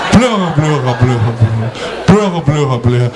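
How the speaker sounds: pleura said the French way, throaty r, fading away; mock French echo of pleura; French accent. Shown as a demonstration. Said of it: "assim que fala em francês". (eco com sotaque francês)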